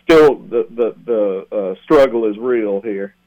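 halting, breathless phrases; short of breath. Real, not acted. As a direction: gasp the words out in short bursts. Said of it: "I'm still just a little bit short of breath".

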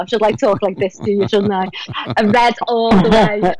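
playfully thickened Scouse accent. Shown as a demonstration. Actress shows interviewers her Liverpool roots, in a Scouse accent. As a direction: lay on the Scouse, punching the football loyalty. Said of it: "this is like my Scouse accent coming out now".

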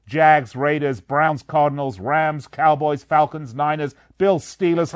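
loud, punched-out list of team names; breathless roll call. Real, not acted. Radio host rattling off the NFL games, breathless roll call. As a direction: punch each team name out in one long run. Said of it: "I'm positively out of breath".

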